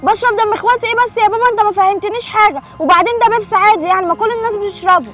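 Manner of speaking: protesting daughter. Acted. البنت ترد محتجة.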